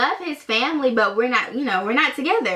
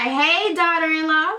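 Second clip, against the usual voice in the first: mock cheery greeting pitched higher; ex's dad's greeting; 6 semitones higher than usual. Ex's dad greeting her on her date, higher mock cheery voice. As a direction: sing out the greeting like a jovial dad.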